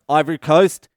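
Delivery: eager guess. Retold or imitated. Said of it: "Someone else is like".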